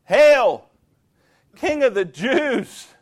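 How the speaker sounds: loud sneering mock hail. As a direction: jeer it like a soldier mocking a king. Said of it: "They mocked him, saying".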